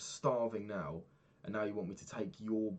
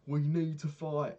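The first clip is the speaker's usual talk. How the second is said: shouted, much higher and louder; rally yourself with a big shout; mock battle cry; 9 semitones higher, 12 dB louder, slower than usual. To his training partner, a roaring pep-up shout. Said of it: "I was like".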